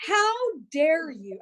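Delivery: drawn-out mock outrage, a touch of real heat; slow indignant how dare you. Retelling the fight to husband, slow indignant. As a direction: stretch each word, offended. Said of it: "this caused a fight between us".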